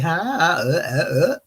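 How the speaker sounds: mock speechless "huh, uh, uh"; imitated dumbfounded stammer. She stood there gagged, mock stammer. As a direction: imitate someone caught with no answer. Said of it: "she kinda gagged".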